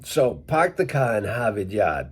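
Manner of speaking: Massachusetts accent, the Rs dropped, "car" said as cah, "Yard" as yahd; Worcester Boston accent, "Harvard" said as Hahvid. Shown as a demonstration. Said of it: "more from Worcester".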